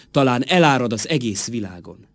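recited in a full, rising-then-settling voice; swelling verse line. Acted. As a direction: let the line flow out fully. First take of repeated closing verse.

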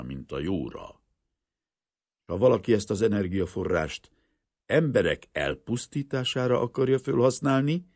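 loud, high, urgent warning; same impassioned voice. A narrator's reading. Professor warns that inventions can serve evil, loud and impassioned. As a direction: drive the warning home forcefully. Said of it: "ugyanazon a hangon folytatta".

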